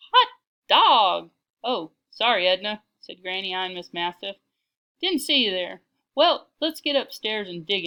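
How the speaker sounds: loud, lightly voiced granny; a hint of folksy old lady; hearty Granny. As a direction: play a brisk, hungry grandmother.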